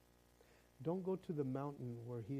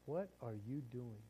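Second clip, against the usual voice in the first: lightly voiced God, softer and measured; calm divine questioning; 2 semitones lower, 4 dB quieter than usual. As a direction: put the question gently and deliberately. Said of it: "kinda was in that tone".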